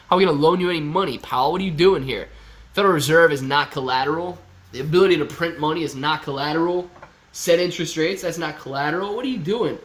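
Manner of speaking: loud, exasperated bank officer refusing; loud scolding. Retold or imitated. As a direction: scold him like a fed-up loan officer. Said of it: "She'd be like".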